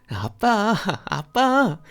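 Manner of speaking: high, loud eerie shouted call; shouting. Retold or imitated. The ghostly voices calling dad, high and loud. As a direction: cry out for dad from the empty room. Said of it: "소리치는 것".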